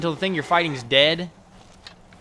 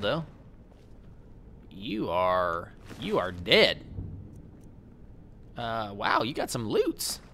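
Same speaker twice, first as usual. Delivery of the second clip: usual speaking voice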